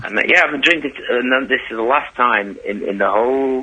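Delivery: slurring a little; tipsy rambling. Real, not acted. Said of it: "you sound like a drunk".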